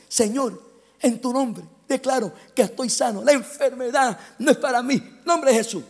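declarative prayer. Retold or imitated. Models healing prayer for son.

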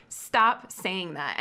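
slow, weighted reprimand, imitated; retold harsh scolding. Mentor scolding the student teacher, retold harshly. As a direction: firmly quote a tough-love telling-off. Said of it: "she said it pretty harshly".

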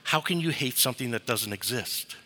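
quiet, calm question. Retold or imitated. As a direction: ask it gently, quietly, without heat. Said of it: "very calmly said".

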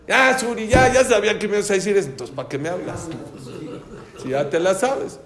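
a father insisting it's different this time; exasperated pleading. Retold or imitated. Friend pleading with Suri about his daughter's wedding date, loud and exasperated.

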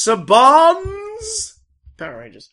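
high, loud, drawn-out announcement; trailer announcer voice. Acted.

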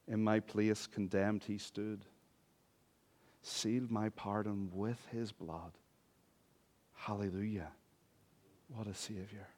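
slow, soft recited hymn; hymn recitation. Acted. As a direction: recite the hymn verse reverently, hushed at the close.

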